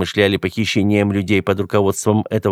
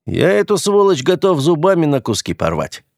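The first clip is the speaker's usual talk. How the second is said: higher, snarling threat; 7 semitones higher than usual. Acted. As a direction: snarl it through bared teeth. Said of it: "оскалился тот".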